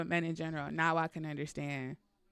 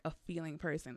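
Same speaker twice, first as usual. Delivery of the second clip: normal talking voice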